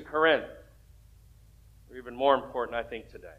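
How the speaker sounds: earnest pastoral prayer. Real, not acted. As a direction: pray sincerely over the church. Opening prayer before sermon.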